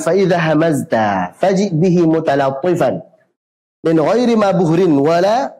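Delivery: chanted Arabic verse; verse recitation. Acted. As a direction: melodic tajwid recitation.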